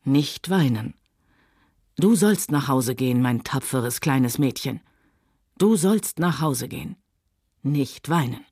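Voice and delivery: low, tender comforting voice; calm her down, kind and unhurried; gently. Acted. Rhett tenderly soothing Scarlett in his arms. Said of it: "auch seine Stimme klang sanft".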